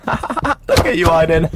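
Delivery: squeaky high taunt, drawn out slowly; mocking high voice. Taunting friend Aiden in the game, squeaky high mocking voice.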